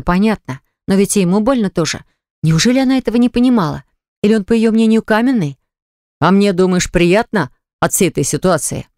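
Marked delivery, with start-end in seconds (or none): none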